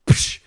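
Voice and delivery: quick "psh" as a slap effect; imitated slap noise. Storyteller showing mom's slap, imitated slap noise. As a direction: mouth a sharp hissed slap sound. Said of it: "slaps me in the face".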